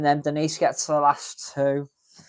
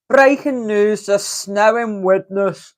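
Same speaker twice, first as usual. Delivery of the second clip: news announcer; 5 semitones higher, 6 dB louder, slower than usual. Pretend. Mock news flash about snow.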